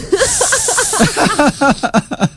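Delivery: a burst of high real laughter. Real, not acted. Host cracks up on air at his own joke, high laughter.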